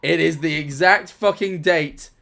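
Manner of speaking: loud and high, vindicated; I told you so energy; excited rant. Real, not acted. Triumphant ranting about being right.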